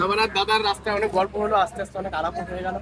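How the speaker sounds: muffled helmet voice; speaking through a closed helmet; inside a helmet. Real, not acted. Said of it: "ওই হেলমেটের মধ্যে দিয়ে কথা বলছিস কি করে?". (হেলমেটের মধ্যে দিয়ে চাপা কথা)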